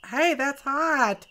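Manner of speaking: sudden yelp at the heat; snatch back from a hot burn; burnt fingertips. Real, not acted. Touching hot glue, yelps.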